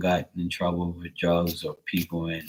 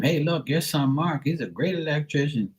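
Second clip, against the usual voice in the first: lightly imitated gushing praise, pitched higher; gushing churchgoers; 5 semitones higher than usual. Churchgoers telling parents about their son, lightly gushing. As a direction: voice admiring churchgoers, lilting a little higher. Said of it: "people at church tell them".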